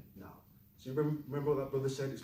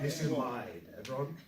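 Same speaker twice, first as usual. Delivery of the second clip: vocal fry. Shown as a demonstration. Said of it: "reaching for some cake".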